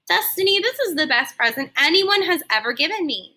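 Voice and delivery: a touch of overjoyed gratitude; beaming. Acted. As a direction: shop owner thanking the girl for her gift, beaming. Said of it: "she said, beaming".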